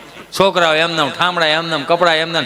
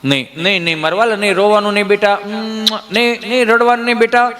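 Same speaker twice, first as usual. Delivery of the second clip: soothing mother. Retold or imitated. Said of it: "માં સાની રાખતી હોય".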